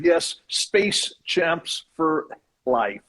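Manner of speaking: slow, deliberate slogan read-out; slow proclamation. Retold or imitated. Reads out fan's comment as slogan.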